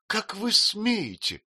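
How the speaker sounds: indignant. A narrator's reading. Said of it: "начала матушка".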